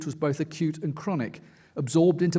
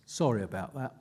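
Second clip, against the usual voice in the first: softer and lower, almost to himself; repeated apology; 4 semitones lower, 6 dB quieter than usual. Retold or imitated. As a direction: drop it down, a throwaway repeat. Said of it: "Then he repeats himself".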